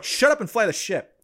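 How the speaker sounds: high-pitched playful snap at the pilot; mock reprimand. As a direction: cut the crewmate off like a bossy captain, hammed up. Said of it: "reprimanding Joker right away".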